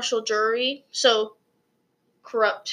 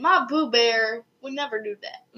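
mom impression. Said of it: "that's a mom impression".

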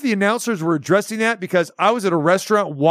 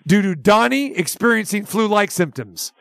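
press release read. Acted. Host reading a cancellation notice to the caller, formal read. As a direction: read it out like an official statement.

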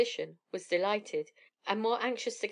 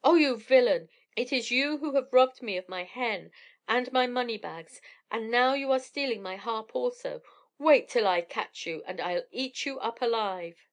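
raging giant; 2 semitones higher, 4 dB louder than usual. Acted. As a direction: bellow at the thief who robbed you. Giant chasing thief, raging.

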